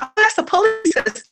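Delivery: tag. Retold or imitated. Retold child answering a question instantly.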